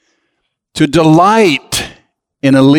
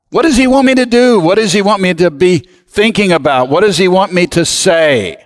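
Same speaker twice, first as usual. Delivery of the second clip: inner prayerful question; 4 semitones higher, faster than usual. Pretend. Voicing a seeking believer.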